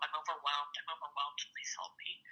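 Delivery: fading from soft to a whisper; retold voicemail plea, trailing off to a whisper. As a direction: let it die away into a whisper.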